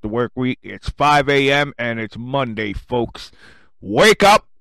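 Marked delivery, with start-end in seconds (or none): 3.8-4.5 wake-up shout. Acted. Morning radio wake-up call.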